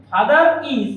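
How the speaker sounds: father is linked as fatharis with R sounded; connected R. Shown as a demonstration. Teacher to students, demoing the connected R. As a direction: run father into is through the R. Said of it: "একসাথে হয়ে যাবে".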